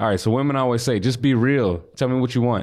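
plain

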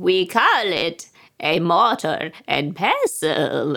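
put-on witchy voice. Asked to say it one more time witchy, repeating it in a witchy voice. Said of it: "I want to hear it witchy".

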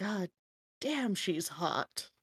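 muttered under breath. A game narrator speaks a character's reaction to a woman, mumbled under her breath. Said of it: "mumbles under her breath".

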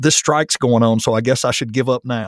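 ordinary delivery

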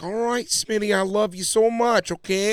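mock northern English accent. Speaker retells what a woman used to say, imitating her northern accent. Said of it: "She'd come out with that freaking northern accent like".

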